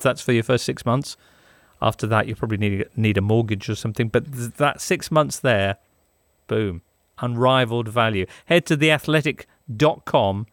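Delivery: brisk, upbeat sponsor read. Acted. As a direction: sell it like a radio ad. Reads the sponsor ad.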